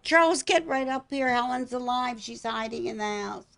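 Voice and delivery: high, urgent call upstairs. Retold or imitated. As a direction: summon him excitedly. Calling husband upstairs.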